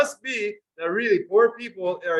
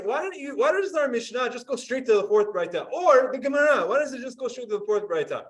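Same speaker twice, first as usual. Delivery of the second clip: higher, mock-impatient student complaint; teacher voicing a student's impatient objection; imitating a student; 3 semitones higher than usual. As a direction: play the fed-up student asking why. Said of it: "So Elon's saying".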